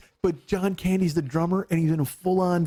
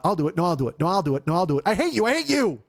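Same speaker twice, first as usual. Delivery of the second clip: mock bickering; 2 semitones higher than usual. Husband acting out a marital tug-of-war, rising mock spat.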